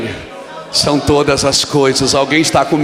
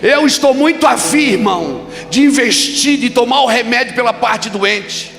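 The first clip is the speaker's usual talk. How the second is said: loud, high, shouting preacher's call; fiery Pentecostal exhortation; preaching at full force; 7 semitones higher, 4 dB louder than usual. Acted. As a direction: build and hammer it to the crowd. Preaching climax.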